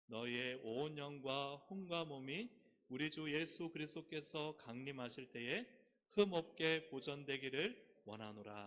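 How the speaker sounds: loud, slow, measured recitation; unison scripture reading. Real, not acted. Preacher leading congregation through a Bible verse, loud slow recitation. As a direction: read it out loud and drawn out for all to follow.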